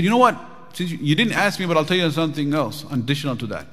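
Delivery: ringing preacher's warning; emphatic declaration. Retold or imitated. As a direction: drive the point home to the king. Sheikh boldly answers the king.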